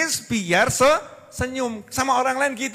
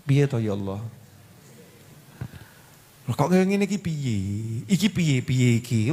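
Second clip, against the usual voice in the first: lower, whining complaint; mock lament; 10 semitones lower than usual. A grumbler complaining to God, mock whining. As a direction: moan it like someone at wit's end.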